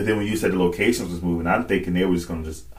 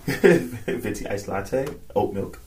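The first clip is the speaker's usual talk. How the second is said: mock order; 4 dB quieter, much slower than usual.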